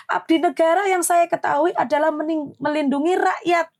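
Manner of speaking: retold scolding. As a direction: scold the officer, voice climbing. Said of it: "ini mulut saya sudah jelek". (ibu memarahi perwira dengan nada tinggi)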